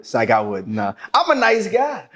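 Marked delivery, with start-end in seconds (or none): 1.1-2.1 higher-pitched commercial-style line. Pretend. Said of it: "Like it's a fucking commercial".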